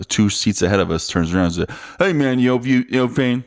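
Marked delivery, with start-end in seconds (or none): 2.0-3.4 higher-pitched mock Cajun local; imitated Cajun accent. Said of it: "I can't even recreate the accent".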